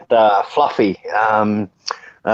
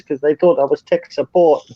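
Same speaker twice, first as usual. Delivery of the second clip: higher mock Indian voice; Indian bank robber; 5 semitones higher than usual. Indian robber explains the computer to his accomplice, mock accent. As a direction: deliver the punchline as the robber, pitched up. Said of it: "the Indian bloke that walks in and goes and robs the bank".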